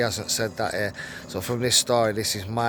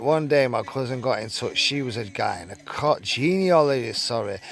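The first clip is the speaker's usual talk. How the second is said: reading a written account aloud; story read-aloud; 3 semitones higher than usual. Acted. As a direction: read it out like a magazine true story.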